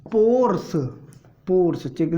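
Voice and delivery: emphatic पोर्स, a word to memorise; stress on पोर्स. Shown as a demonstration. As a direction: hit पोर्स hard so they remember it. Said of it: "ये word याद रखना".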